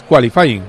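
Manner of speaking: "qualifying" said as an English word; English term, imperfectly pronounced. Shown as a demonstration. Radio pundit explaining the qualifying term, English word in Spanish accent. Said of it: "la mala pronunciación".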